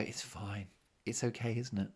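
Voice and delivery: soft, acted letting-it-go; quiet resignation. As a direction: swallow it and play it down softly. Acting out swallowing a grievance.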